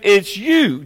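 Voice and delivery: firm stress on "you"; preacher punching the word "you"; emphatic YOU. Real, not acted. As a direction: land hard on "you". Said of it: "it's emphatic".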